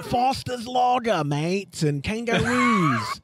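drawn-out, hammed-up Aussie accent; Australian accent. Host playing up his bad Aussie for co-hosts, mock Australian accent. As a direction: put on a broad mock Australian accent, stretching the words. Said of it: "every time you do your Australian accent".

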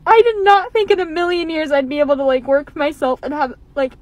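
choked up, voice on the edge; fighting back real tears; tearful. Real, not acted. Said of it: "let me compose myself".

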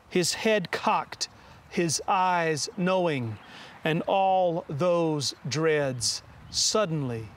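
slow, measured poem recital; unhurried verse with deliberate pauses; poetry reading. Acted. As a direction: read your poem aloud, line by deliberate line. Reads own poem aloud.

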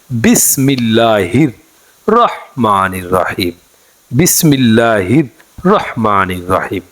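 slow, careful Arabic recitation of বিসমিল্লাহির রহমানির রহিম; model recitation. Shown as a demonstration. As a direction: recite each syllable slowly and clearly for learners. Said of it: "এভাবে পড়বেন".

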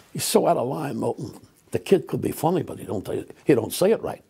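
lightly imitated cigar-chomping gag writer; old showbiz writers. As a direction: grumble like a TV comedy writer. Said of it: "I talk like that because that's the way they talked".

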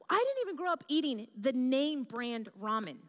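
hushed, voiceless aside to the crowd; whispered aside. Real, not acted. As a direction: whisper it like a secret confession. Confessional aside to audience.

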